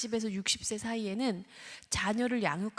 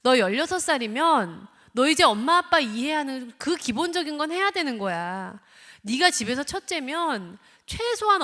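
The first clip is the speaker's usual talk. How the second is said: loud, higher lecturing scold; entitled lecture scold; 4 semitones higher, 7 dB louder than usual. Retold or imitated. Parent telling teen what is expected, loud scold. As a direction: hammer home what a sixteen-year-old owes. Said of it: "그 다음에 당연시를 합니다".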